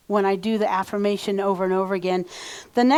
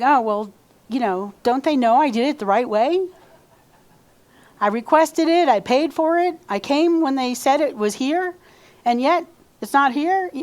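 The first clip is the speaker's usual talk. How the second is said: whiny ego; 3 semitones higher than usual. Retold or imitated. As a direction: play the offended ego in your head. Ego complaining in her head.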